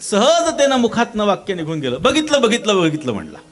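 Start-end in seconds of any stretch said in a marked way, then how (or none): 2.0-3.1 sudden high, loud triumphant cry; excited blurt. Acted. Man finally spotting the potter's forehead mark, blurting out an excited cry. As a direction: blurt it out in delight at last.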